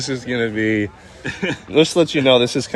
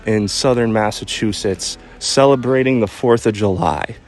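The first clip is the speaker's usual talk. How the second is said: careful. Real, not acted. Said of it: "how intricate you're sounding right now".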